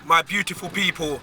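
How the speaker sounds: losing his voice, hoarse and rough. Real, not acted. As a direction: speak through a worn hoarse throat. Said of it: "I'm losing my voice in it, so I apologize if I sound a bit coarse".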